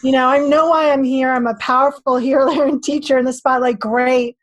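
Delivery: mildly fired-up warrior challenging God; a touch of angry warrior, demanding answers; lightly acted warrior voice, indignant. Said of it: "in my warrior voice".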